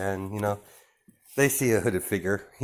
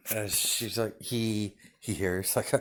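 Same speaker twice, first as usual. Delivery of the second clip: ordinary delivery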